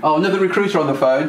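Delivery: quick, lightly mocked exasperation; imitated dismissive groan. Somebody announcing another recruiter's call, imitated dismissiveness. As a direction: mimic someone fed up with cold callers. Mimics gatekeeper tired of recruiter calls.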